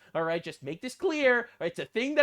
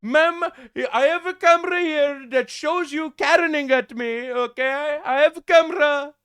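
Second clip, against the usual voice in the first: higher, louder mock South Asian accent, brash; 5 semitones higher, 5 dB louder than usual. Mocking the cop answering the lady, loud mock accent. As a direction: parody the cop sneering at her. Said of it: "my Canadian accent".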